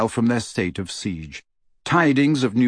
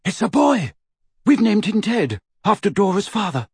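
high, elated announcement; crying aloud; 9 semitones higher than usual. A narrator's reading. Lupin announcing his son to the room, crying aloud. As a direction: proclaim joyful news, voice pitched way up. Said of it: "then cried aloud".

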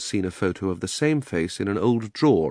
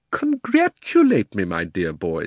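gleeful; 4 dB louder, slower than usual. Acted. Uncle gloating.

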